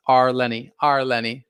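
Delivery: Arleni said as ar-LEH-nee; name pronunciation. Shown as a demonstration. Host trying a viewer's name from chat, Arleni pronounced ar-LEH-nee. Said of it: "My first name is pronounced".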